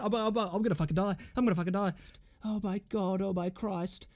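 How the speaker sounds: soft, spent muttering; overwhelmed. Real, not acted. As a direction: sink into a drained, quiet mumble. Winded after celebrating.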